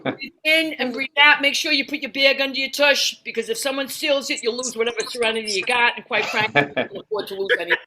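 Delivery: a hint of a brash New Yorker guiding breaths; New York meditation guide. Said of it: "I need a New York guided meditation".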